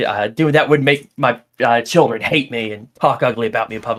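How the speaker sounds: put-on angry woman voice, ranting. Retelling what an upset stranger said after a comedy bit: imitating an angry woman. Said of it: "she was just pissed and just kept going on".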